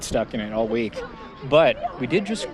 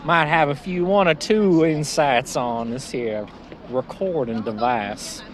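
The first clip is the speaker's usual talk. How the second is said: a hint of a folksy small-town lawyer; Southern lawyer voice. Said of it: "Southern lawyer voice".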